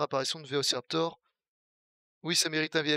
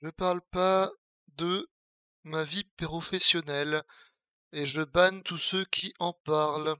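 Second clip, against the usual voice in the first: stern warning; 2 semitones higher, 4 dB louder, slower than usual. Real, not acted. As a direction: spell the rule out slowly to the chat. Met en garde le chat, sévère. (avertissement sévère au chat, lent et plus fort)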